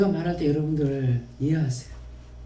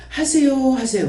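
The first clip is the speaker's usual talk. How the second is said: mock overpolite; 6 semitones higher, 4 dB louder than usual. Imitating polite talk to kids.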